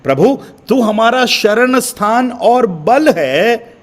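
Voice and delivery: slow, drawn-out recitation stressing बल; scripture reading. Acted. Preacher quoting the psalmist to the congregation, slow recitation. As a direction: read it slowly like scripture. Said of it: "भजन के लिखने वाले कहते हैं".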